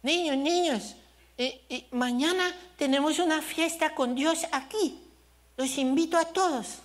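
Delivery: high halting child voice, lightly played; little boy inviting. Little son invites the neighbourhood kids, halting high child voice. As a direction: stumble through the invite like a toddler. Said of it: "Él, él medio hablaba".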